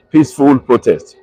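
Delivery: "Peaceful protest" restated firmly, falling at the end; emphatic PEACEFUL PROTEST. Real, not acted. Broadcaster repeating key words to protesters, stressing "Peaceful protest". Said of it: "I am emphasizing the word".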